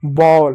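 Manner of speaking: बॉल with a rounded, open "aw" vowel; au vowel sound. Shown as a demonstration. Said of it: "ए को औ की मात्रा पढ़ा".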